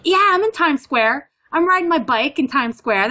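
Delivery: high-pitched, pumped-up brag; acted exhilaration. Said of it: "a little bit of a high".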